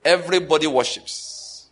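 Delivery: firm weight on "Everybody worships"; "Everybody worships", stressed evenly and firmly; emphatic statement. Real, not acted. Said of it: "What am I trying to emphasize?".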